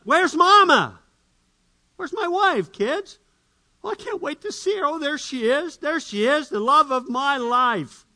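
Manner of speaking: high, excited calling for his wife; husband coming home, calling out for his wife, high and eager. Acted. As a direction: bounce in calling for the love of his life.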